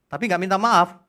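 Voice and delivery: loud preacher's indignation; indignant emphasis. Real, not acted. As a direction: hammer home the missing apology. Repeated with emphasis.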